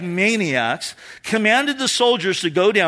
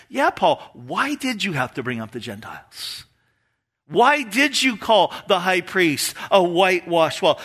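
imitated accusing questions; mock reproach. What Jesus is not saying to Paul, mock accusing. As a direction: pile on with mock blame. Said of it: "Jesus isn't joining Paul in his why questions".

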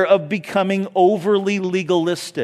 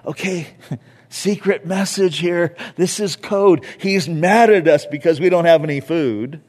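confused disciples. Retold or imitated. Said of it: "And they're like".

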